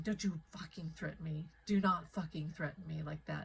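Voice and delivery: low, controlled angry warning; retold angry threat. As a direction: warn him off, firmly, without shouting. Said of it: "I was pissed".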